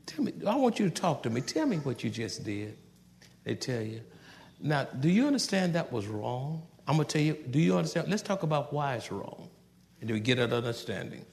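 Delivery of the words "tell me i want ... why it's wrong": softer, gentle correction; calm with a smile. Retold or imitated. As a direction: talk it through calmly with the child. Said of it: "tell your children with a smile".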